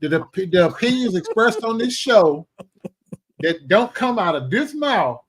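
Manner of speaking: solemnly disown all responsibility; mock disclaimer.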